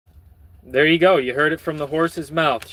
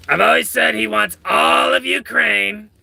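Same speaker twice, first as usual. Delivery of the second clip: Trump impression; 4 semitones higher than usual. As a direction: do Trump as if he has throat cancer. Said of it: "you got throat cancer".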